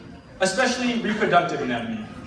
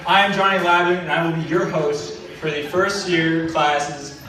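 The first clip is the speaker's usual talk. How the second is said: loud host's welcome to the crowd; big stage introduction; show announcer; 4 dB louder than usual. Acted. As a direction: open the show like an emcee, projecting to the room. Host opens the class show.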